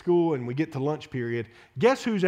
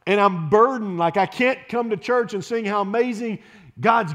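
raised, louder pulpit voice; preaching at full force; 5 semitones higher, 5 dB louder than usual. Acted. Pastor urging the church to care for the lost, raised preaching. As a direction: press the burden on the congregation.

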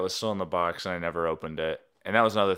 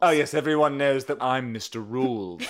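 sexy voice; 4 semitones higher, 5 dB louder than usual. Pretend. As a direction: purr it like a seducer. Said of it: "That sounded like a very sexy person".

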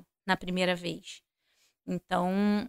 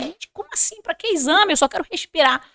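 retold desperate protest; 7 semitones higher than usual. Retold panic at hospital, short of air.

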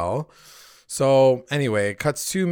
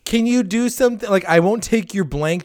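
mock pleading Archie. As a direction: mimic a needy son begging, pitched up. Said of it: "and he's like".

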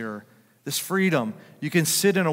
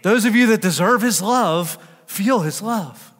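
louder and higher, proclaiming it with full force; a pastor springing the real line on the congregation, loud preaching; 6 semitones higher, 7 dB louder than usual. Shown as a demonstration. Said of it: "I'm tricking you".

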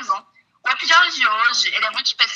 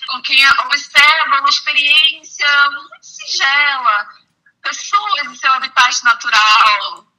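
hushed nature documentary; 5 semitones higher, 5 dB louder, slower than usual. Pretend. Mock wildlife documentary commentary.

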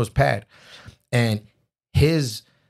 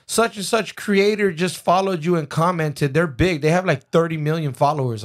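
raised pitch, mildly hyped reenactment; excited news; 7 semitones higher than usual. Retold or imitated. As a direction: imitate a friend bringing big news. Friend comes down with big news.

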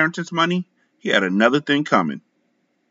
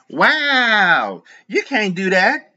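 higher, slow indignant voice; mistress protesting; 10 semitones higher, much slower than usual. A narrator's reading. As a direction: protest in disbelief.

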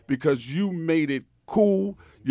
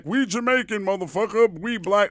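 raised-pitch, scornful imitation; mock boastful students; 5 semitones higher, 3 dB louder than usual. Students setting themselves above Haitian schoolmates, mock boasting. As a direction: crow it like students lording it over others. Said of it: "they were marginalized".

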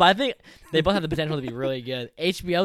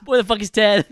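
louder mock tough-guy voice; mock Mark Wahlberg; 4 semitones higher, 9 dB louder, faster than usual. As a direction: bark like a movie tough guy.

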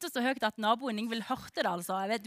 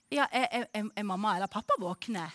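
lightly imitated Stavanger caller voice, hesitant start; retold phone voice with a hint of Stavanger dialect; 3 semitones lower, 4 dB quieter than usual. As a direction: gently ask it in a mock Stavanger dialect. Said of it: "så snakker litt sånn Stavanger-dialekt".

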